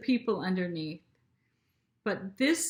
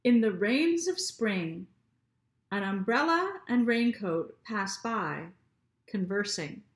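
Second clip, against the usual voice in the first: poem reading. Shown as a demonstration. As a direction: let each line of the poem land. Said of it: "Let's read".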